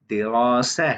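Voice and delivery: दिरासा with a long, rounded middle vowel; Arabic pronunciation. Shown as a demonstration. Teacher reading out the written pronunciation, careful Arabic दिरासा. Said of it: "यहाँ हमने लिखी है इसकी pronunciation".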